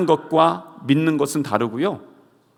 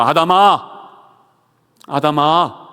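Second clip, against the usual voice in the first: louder calling, softening on the repeat; 5 dB louder, slower than usual. Retold or imitated. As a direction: call Adam to forgive him. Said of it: "불러주시는 겁니다". (용서하려고 부르는 목소리)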